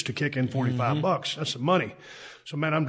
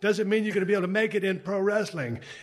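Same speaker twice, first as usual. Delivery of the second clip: clumsy put-on English accent, fast and high; 6 semitones higher than usual. Retelling what a seminar presenter said to him, in a shitty english accent. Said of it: "My shitty English accent".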